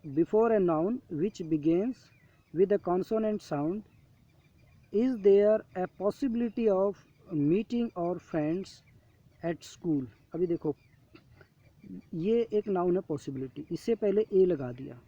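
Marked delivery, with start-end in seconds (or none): 0.1-10.1 slow reading aloud. Shown as a demonstration. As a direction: read each word very slowly, like dictation. Teacher reads rules slowly. (धीरे-धीरे पढ़कर सुनाना)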